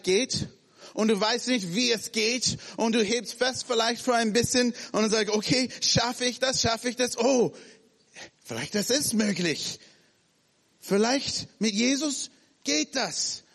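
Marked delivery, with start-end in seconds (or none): 5.3-13.4 mild, higher unsure self-talk; a hint of worried then hopeful; nervous hope. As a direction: talk yourself into it. Voicing a hesitant believer.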